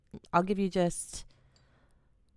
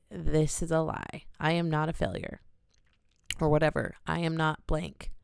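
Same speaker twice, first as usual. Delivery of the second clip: slow affirmation demo. Shown as a demonstration. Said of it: "I want you to say".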